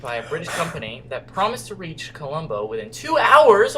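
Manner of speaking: measured storytelling read-aloud; story narration. A narrator's reading. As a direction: read it like an adventure tale. Reads game story aloud.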